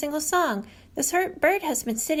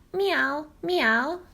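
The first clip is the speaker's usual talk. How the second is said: catbird meow; 2 semitones higher than usual. Retold or imitated. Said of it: "sounds like a hungry cat".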